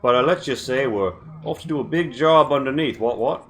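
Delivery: a hint of a sly Cockney leer; leering British rogue. Hatter leaning close to the party, leering British voice. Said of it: "he says, leering uncomfortably close to you".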